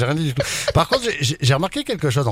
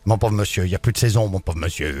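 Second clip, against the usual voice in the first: mock old-timer lament; 8 semitones lower than usual.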